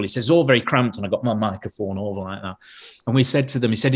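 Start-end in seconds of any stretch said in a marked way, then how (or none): 0.3-1.0 lightly imitated Lancashire sound man; Lancashire accent. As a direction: slip into a mild Lancashire accent. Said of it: "Hope you can understand my Lancashire accent".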